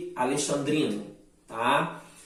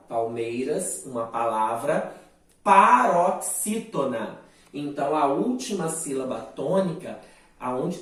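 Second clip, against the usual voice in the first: normal talking voice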